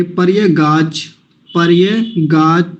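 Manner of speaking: पर्यगाच drawn out slowly, syllable by syllable; slow syllable demo. Shown as a demonstration. Teacher adding a syllable for students, slowly. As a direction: build पर्यगाच slowly piece by piece. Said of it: "चा को और ले लेंगे".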